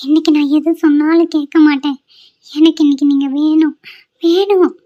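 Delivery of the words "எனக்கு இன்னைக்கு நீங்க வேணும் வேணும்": pleading whine. Acted. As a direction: whine it like a coaxing wife. Wife begging husband. (கெஞ்சும் குரலில் நீட்டி)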